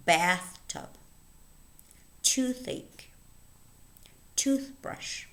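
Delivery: BATH-tub, TOOTH-ache, TOOTH-brush, first halves prominent; stress on first word. Shown as a demonstration. Teacher having learners listen for stress on "Bath" and "tooth". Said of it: "the stress falls on the first word".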